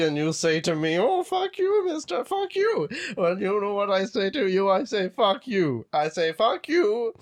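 a hint of a cranky old man ranting; grumpy old man. Old man yelling at kids off his lawn, mildly heated. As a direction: chase the kids off your lawn. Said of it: "possessed by some kind of old man".

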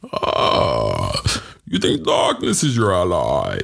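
slow, gravel-free attempt at a menacing villain line; mild mock villain, slow; movie villain impression. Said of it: "then I'm gonna imitate it".

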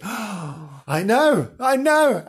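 rising excited gush; high excited I know. Real, not acted. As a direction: squeal it with delight. Excited reaction to famous guests.

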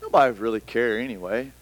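gloomy Eeyore Christian. Retold or imitated. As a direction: sigh it out like a defeated believer. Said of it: "we sound like this Christian version of Eeyore".

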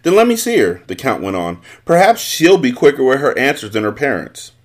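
a noble giving orders to peasants; a touch of the commanding Count; lightly voiced Count. The Count demands the daughter.

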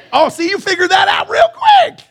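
high, loud burst of delight; delighted shout. Real, not acted. Pastor praising the quick congregation, delighted shout. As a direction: cheer them for answering right away. Congregation answers his call.

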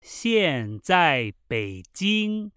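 slow, word-by-word dialogue reading with pauses; measured Mandarin, each phrase set apart. Shown as a demonstration. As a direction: read very slowly for learners to repeat. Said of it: "this time very slowly".

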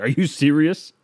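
indignant host. Retold or imitated. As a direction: defend the family recipe, offended. Grandma's-recipe host insists.

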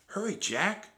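high-pitched call; high, anxious girl's call; urgent cry. A narrator's reading. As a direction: urge him to hurry, voice high. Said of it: "cried Annie".

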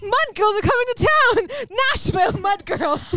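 high, drawn-out event promo; stretched-out ringside billing; mock announcer. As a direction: hype the show like a touring announcer.

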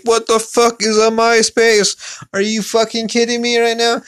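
put-on incredulous teen, slowed right down; stunned disbelief. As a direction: act floored by the news. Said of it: "And I'm like".

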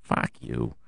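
breathy whispered insult. Real, not acted. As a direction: hiss it under your breath. Whispered insult to those fans.

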